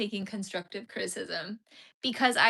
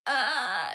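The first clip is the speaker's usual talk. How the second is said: croaky sick note; 4 semitones higher, 5 dB louder than usual. Retold or imitated. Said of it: "because of my sick voice".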